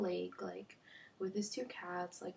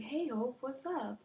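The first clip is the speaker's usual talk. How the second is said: higher, casual imitated hello; mock friendly greeting; 5 semitones higher than usual. Neighbor says hello to seven-year-old, mock friendly.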